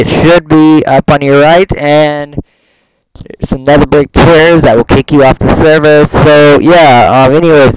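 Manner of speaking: airport announcer voice. Pretend. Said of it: "my airport voice ain't the best".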